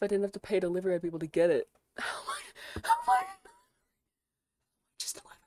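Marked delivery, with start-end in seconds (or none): 1.8-5.4 laughing disbelief. Real, not acted.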